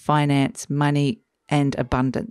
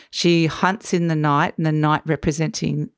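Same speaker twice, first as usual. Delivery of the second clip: a tired hoarse voice. Real, not acted. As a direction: voice going hoarse, losing it. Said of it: "I'm losing my voice".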